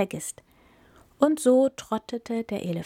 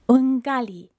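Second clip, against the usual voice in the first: excited echo; 4 semitones higher, 6 dB louder than usual. Acted. Gazelle repeats the name.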